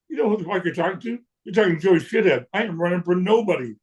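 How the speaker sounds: high-pitched, incredulous retold brush-off; mock-offended, pitched well up; indignant refusal. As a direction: act out turning a caller down in mock outrage.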